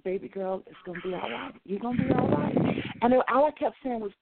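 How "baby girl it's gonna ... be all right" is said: gentle reassurance. Retold or imitated. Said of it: "That's all she said".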